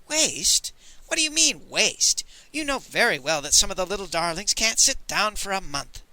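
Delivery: a vain, playful dandy; lightly voiced Moon Boy. Moon Boy's voice.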